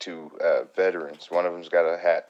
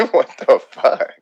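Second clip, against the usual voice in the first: higher, much louder, slow outraged cry; mock outrage; 7 semitones higher, 13 dB louder, slower than usual. Waiter retelling the customer's rudeness, slow loud outrage. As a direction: drag it out in loud disbelief.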